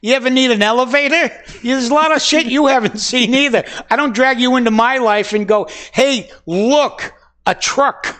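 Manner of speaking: mock retort. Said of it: "And I go".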